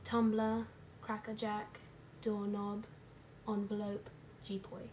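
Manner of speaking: put-on light British accent, word by word; a playful put-on British accent; mock British accent. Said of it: "in a British accent".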